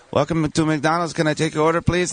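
lightly imitated McDonald's worker in a vague international accent; a hint of an unplaceable foreign accent; drive-thru greeting with an accent all over the place; muddled international accent. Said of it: "That was a nice accent".

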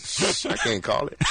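hushed secret whisper. Real, not acted. To the host, a whispered catchphrase.

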